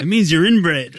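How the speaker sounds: deadpan doctor voice. Retold or imitated. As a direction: deliver the punchline as the doctor. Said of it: "He's like".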